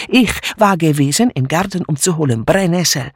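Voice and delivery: put-on accented broken German with lively pitch swings; agitated refugee maid relishing her tale; triumphant, dramatic foreign maid. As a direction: tell it as a juicy accusation. Mitzi tells what she overheard.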